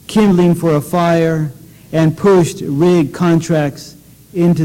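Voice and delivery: measured, deliberate poetry reading voice; poem reading. Acted. Poet reading his own poem to an audience, measured. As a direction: read each image slowly and let it land.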